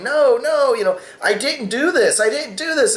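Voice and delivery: high, pleading mock sob of a small boy; lightly acted crying child; imitating a crying kid. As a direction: play the kid denying it through mock tears. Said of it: "this poor kid's crying and saying".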